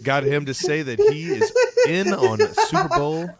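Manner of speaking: high squeaky laugh-talk; words squeezed out through laughter. Real, not acted. Cracking up while announcing.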